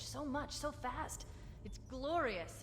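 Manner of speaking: slow, dreamy awe; awed rapture. Acted. AI flooded with knowledge, slow awed wonder. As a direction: savour each word, overwhelmed by wonder. AI overwhelmed by data.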